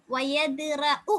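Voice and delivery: வயதுரஉ very slow, with a long final உ; slow recitation. Shown as a demonstration. Teacher intoning the stretched vowel for students. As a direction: chant வயதுரஉ slowly, with a long ending. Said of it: "வயதுரஉன்னு நீட்டிட வேணும்".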